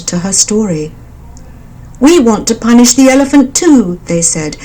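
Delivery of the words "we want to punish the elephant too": higher, louder frog voices; frog chorus. A narrator's reading. Frogs telling the mother bird their plan, higher. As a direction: frogs wanting revenge.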